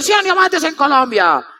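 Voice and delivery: slow, stretched-out mock stadium cry; mild mock yell, words stretched; imitated crowd cry. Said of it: "cuando comenzaron a gritar".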